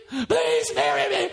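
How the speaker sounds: whispered, slow begging; mock whispered plea. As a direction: breathe the plea, slowly. Mocking a desperate suitor.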